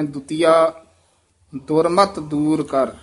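ਦੁਤੀਆ, a long rest, then ਦੁਰਮਤ ਦੂਰ ਕਰ; ਦੁਤੀਆ ਉੱਤੇ ਯਮਕ; pause after ਦੁਤੀਆ. Shown as a demonstration. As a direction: set ਦੁਤੀਆ apart. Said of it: "ਦੁਤੀਆ ਤੇ ਯਮਕ ਲਾ ਦੇਣੀ ਹੈ".

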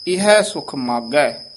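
slow, with a break after Das; slowly, a pause before ਇਹ; slow careful recitation. Shown as a demonstration. Teacher shows how ਇਹ is said. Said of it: "ਇਹ ਉਚਾਰਨ ਕਰਨਾ ਹੈ".

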